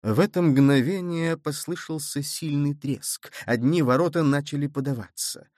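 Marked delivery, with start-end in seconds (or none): none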